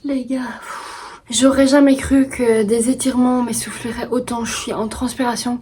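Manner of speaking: panting after stretching; out of breath, puffing between words. Real, not acted. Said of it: "Je respire comme si j'allais monter je sais pas combien d'étages".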